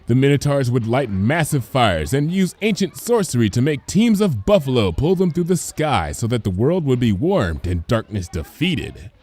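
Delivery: lightly voiced patient teacher; cheerful teacher. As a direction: explain it kindly to a class of foals. Teacher explains mural.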